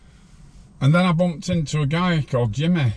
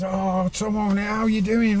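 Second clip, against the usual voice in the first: cheery greeting; 9 semitones higher, much slower than usual. Retold or imitated. Retold friendly greeting.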